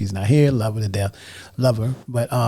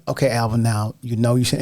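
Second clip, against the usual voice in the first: soft-spoken mother; 3 semitones lower than usual. Retold or imitated. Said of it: "she'd be like".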